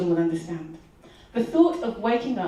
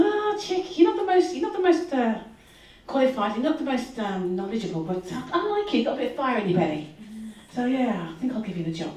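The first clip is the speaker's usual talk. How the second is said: put-on Scouse accent; 3 semitones higher than usual. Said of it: "My Scouse accent's terrible".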